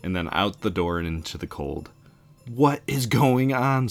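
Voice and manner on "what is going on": high, slow frightened scream. A narrator's reading. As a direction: scream it in panic. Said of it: "screams Annie".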